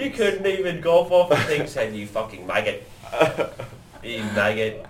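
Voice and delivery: mock Australian accent. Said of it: "Is that Australian now?".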